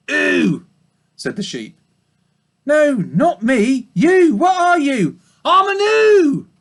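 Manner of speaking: very high, slow dopey sheep voice; old ewe confused by the question; slow-witted old ewe. Acted. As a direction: answer dimly like a muddled old ewe.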